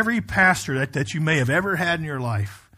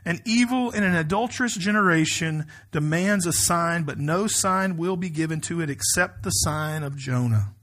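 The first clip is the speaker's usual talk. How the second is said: raised, emphatic pulpit reading voice; scripture reading; 2 semitones higher than usual. Acted. Pastor reading the Gospel to his congregation, emphatic scripture reading. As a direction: read it out firmly to a congregation.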